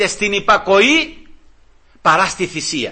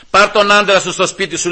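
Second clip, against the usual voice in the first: amused verdict. Retold or imitated. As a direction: announce the judge's verdict, chuckling. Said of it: "πάρ' τον άντρα σου στο σπίτι σου".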